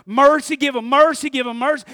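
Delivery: loud, fervent call for mercy; pleading for mercy. Retold or imitated. New spiritual man pleading loudly for mercy. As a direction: cry out for mercy from the heart. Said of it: "He says".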